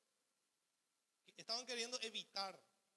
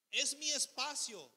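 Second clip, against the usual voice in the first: indignant ego; 5 semitones higher, 8 dB louder, slower than usual. Retold or imitated. Pastor voices the selfish ego.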